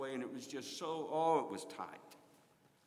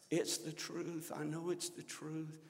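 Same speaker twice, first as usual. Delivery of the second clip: slight whine; 2 semitones higher, 5 dB quieter than usual. Retold or imitated. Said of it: "Always had a little whine to her".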